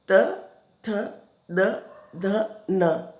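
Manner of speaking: त, थ, द, ध, न said one by one with pauses; sounding out consonants. Shown as a demonstration. Teacher reciting dental letters to pupils, one at a time. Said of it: "जब हम बोलते हैं".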